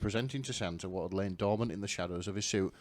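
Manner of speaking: hammed-up smut narration; dramatic fic reading. Reading the fic aloud to friends, mock-dramatic narration. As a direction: read it like a breathless romance novel.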